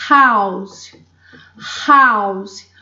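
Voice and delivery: house with a breathy h at the start; aspirated h. Shown as a demonstration. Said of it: "O H tem som aqui". (house com o H aspirado)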